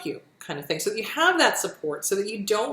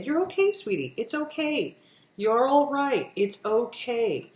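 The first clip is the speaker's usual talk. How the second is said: gentle parental reassurance; soothing parent; 3 semitones higher than usual. Shown as a demonstration. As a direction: comfort a child like a kind parent. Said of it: "what a parent would say".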